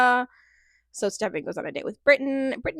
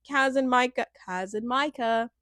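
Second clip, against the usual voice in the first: trying English accent; 2 semitones higher than usual. Shown as a demonstration. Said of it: "I tried to do the English thing".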